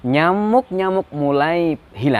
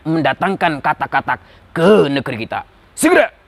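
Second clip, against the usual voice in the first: commanding king. Acted. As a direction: issue royal orders, then jump up on the last word. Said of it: "raja pun dia kemudian mengiyakan usul".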